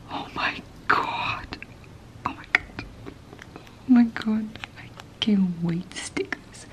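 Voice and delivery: hushed unboxing whisper. Real, not acted. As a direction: breathe the words close to the mic.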